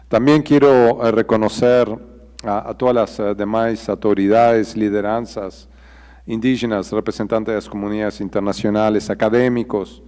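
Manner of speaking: Portuñol. Real, not acted. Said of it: "I'm stronger in Portuñol than Portuguese".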